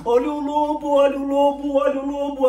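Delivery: high, loud cry of wolf; shouting. Acted. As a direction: yell it to scare everyone. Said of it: "continuava a gritar".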